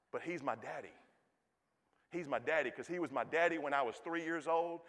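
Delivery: ordinary delivery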